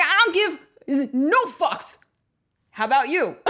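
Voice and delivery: slow, high, drawn-out unbothered voice; Melania impression.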